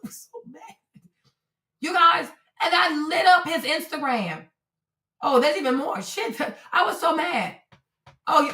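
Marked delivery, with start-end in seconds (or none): 0.0-0.6 whispered through a laugh, higher; breathless laugh. Real, not acted. Laughing to viewers about her own fury. 6.0-7.6 half-laughing, half-crying. Real, not acted. Laughing as she rereads her message.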